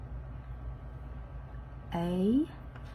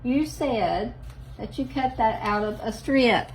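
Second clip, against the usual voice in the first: imaginary viewer yelling; 4 semitones higher, 4 dB louder than usual. Pretend. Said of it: "yell and be like".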